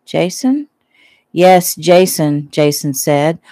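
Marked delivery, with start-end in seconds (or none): 0.0-0.7 high, surprised rising question. Acted. Shelley surprised at the name. 1.3-2.5 slow, louder, nose held shut; holding his nose. Acted. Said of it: "holding his nose".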